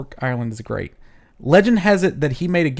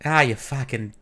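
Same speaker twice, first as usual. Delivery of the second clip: a lightly done Irish accent cursing; 3 dB quieter than usual. Shown as a demonstration. Host doing her Irish accent for a curse. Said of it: "my Irish accent, really quick".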